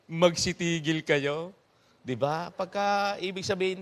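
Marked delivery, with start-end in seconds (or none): 0.1-1.5 slow. Shown as a demonstration. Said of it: "Yung pala ibig sabihin noon".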